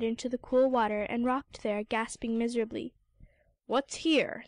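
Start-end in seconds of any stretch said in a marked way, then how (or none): 3.7-4.4 gruff sea lion. Acted. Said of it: "said a sea lion gruffly".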